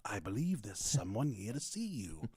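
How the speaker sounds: lightly voiced butler. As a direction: announce a guest like a butler. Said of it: "It sounds like it could be like a butler".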